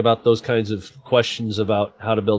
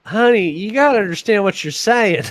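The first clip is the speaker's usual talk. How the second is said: teasing; 10 semitones higher than usual. Real, not acted. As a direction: needle her sweetly. Teasing friend, laughing.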